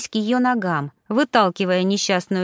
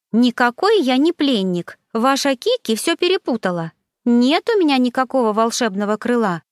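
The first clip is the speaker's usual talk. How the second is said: rattling off; 3 semitones higher than usual. Acted. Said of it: "затараторила Саня".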